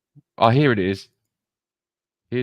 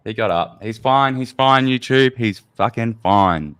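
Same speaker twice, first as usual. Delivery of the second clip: insistent reassurance; 5 semitones higher, 7 dB louder than usual. Real, not acted. Insisting to YouTube the man is fine.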